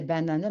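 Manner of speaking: "banane" said as ba-na-neu; final E sounded. Retold or imitated. Child puzzled by the odd word, "banane" said ba-na-neu. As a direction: add a voiced "neu" to the end of "banane". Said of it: "c'est pas banane".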